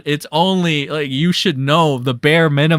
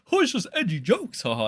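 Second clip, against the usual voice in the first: lightly higher mock excuse; a hint of a dismissive Ethan; mocking Ethan Klein; 3 semitones higher, 4 dB quieter, faster than usual. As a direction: shrug it off sarcastically. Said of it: "what Ethan Klein calls".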